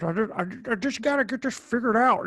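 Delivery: put-on Jimmy Stewart-like accent; Nicolas Cage. Podcaster mimicking an actor's sudden accent, mock accent. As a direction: drift into an odd old-movie accent. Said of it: "he just started talking like this".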